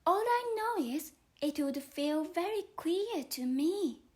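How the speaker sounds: young Alice explaining herself to the caterpillar, lightly voiced. Alice answers.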